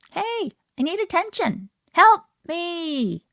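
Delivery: put-on high, loud pleading baby voice; acting out a baby calling for help, high and loud; baby crying for attention. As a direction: beg like a baby who needs attention. Voicing a baby's needs.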